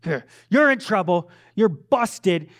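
a hint of a stern theatrical dad; mock-stern father scolding. Father scolding his toddlers in his theatrical dad voice. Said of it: "you get my dad voice".

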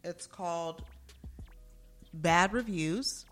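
hammed-up announcer voice; drawn-out, showy segment intro; exaggerated cartoon intonation. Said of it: "Why are you talking like that?".

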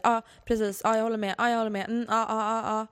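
exaggerated interrupting backchannel, lightly imitated; mock eager agreement. Host imitates constantly interrupting her co-host, mock agreeing. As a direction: chime in over and over, lightly mocking. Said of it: "avbryta dig varenda sekund och säga".

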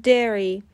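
"dairy" said clearly as DEH-ree; slow, careful model of "dairy" as DEH-ree; correct pronunciation. Shown as a demonstration. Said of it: "تلفظ درست".

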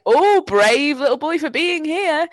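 put-on a sympathetic hotel guest cooing over a child; pitying stranger. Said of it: "someone ... was like".

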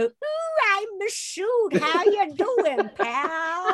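a high, hammed-up take on a mate's voice, starting very high; mock Masood impression. Prank-calling Chris, lightly mimicking Masood. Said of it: "I sometimes ring Chris and go".

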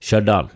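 Stjørdal said as "Shødal", no t or j; local Stjørdal pronunciation. Shown as a demonstration. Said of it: "det føles ikke naturlig for meg å si Stjørdal".

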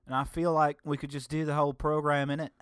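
high, lilting put-on Irish-British accent; mock British-Irish accent. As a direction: do a cheery, muddled Irish brogue. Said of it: "I'm speaking in this accent".

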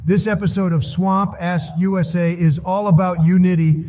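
lightly voiced Trump speech; Trump impression. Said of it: "that speech was pretty spot on. That's exactly what Trump would say".

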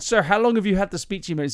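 quick, high American preacher; a hint of American healing minister; slight American accent. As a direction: fire the question like an American preacher. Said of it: "that's a slight American accent".

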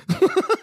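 high laughing burst; burst of laughter. Real, not acted. Laughing at his own Discord joke for listeners, a high burst of laughter.

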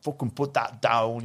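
imitating an Irish bar lady's accent. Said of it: "in her Irish accent".

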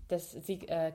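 ordinary talk

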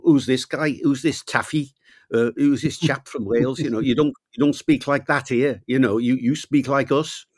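mock-jeer at the new kid, half-playful; Liverpool lads taunting. Local lads quizzing the new boy from Wales, a mild mock taunt. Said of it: "all the local Liverpool lads".

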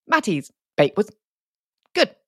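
a lightly voiced judge, pausing between words; Paul Hollywood with full stops. Co-host mimics the judge's halting verdict, with choppy pauses. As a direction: clip it into separate sentences. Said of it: "talks with full stops between each word".

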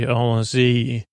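"Allons-y" said slowly in French, a-lon-ZEE, nasal on. Shown as a demonstration. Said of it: "which is A L L O N S Y".

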